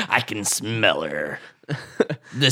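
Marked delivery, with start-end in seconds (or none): 0.1-1.4 low, slow laughing pirate. Acted. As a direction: growl it like a salty old pirate. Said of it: "That's a pretty good pirate voice".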